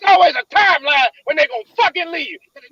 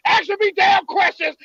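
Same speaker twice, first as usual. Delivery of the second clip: crying. Real, not acted. Upset, near tears.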